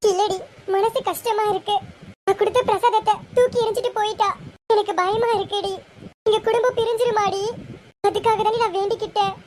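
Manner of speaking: a touch of crying, voice lifted with worry; tearful. Acted. To her friend after the offering is thrown away, tearful. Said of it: "ஏண்டி அழுகுற?".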